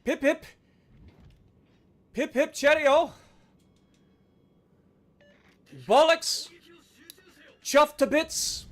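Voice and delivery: hammed-up British slang; playful stiff-upper-lip British caricature; mock British accent. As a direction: toss out stock British exclamations. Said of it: "I'm in a freaking British ship".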